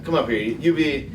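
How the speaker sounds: usual speaking voice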